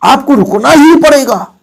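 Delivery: teacher stressing ही for emphasis. Shown as a demonstration. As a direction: punch the word ही hard. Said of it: "जोर दे दिया गया".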